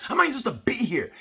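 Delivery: high, fast Clerks movie line; lightly voiced Clerks kid; Clerks kid quote. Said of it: "Like that kid, like, from Clerks".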